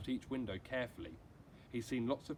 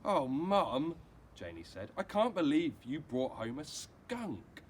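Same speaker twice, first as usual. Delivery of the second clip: put-on girl's voice; 4 semitones higher, 7 dB louder, slower than usual. Narrator voices young Janie.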